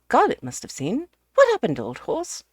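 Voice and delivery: booming host asking for details; hearty Ukridge. Acted. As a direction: bluff question to an old pal. Ukridge turns to Garnet.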